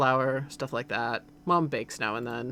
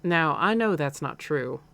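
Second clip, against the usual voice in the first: slow, lightly Southern mom; slightly southern accent. Acted. Mom doubting her son's denial, slightly southern accent. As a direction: doubt him slowly with a hint of Southern. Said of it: "like, a slightly southern accent".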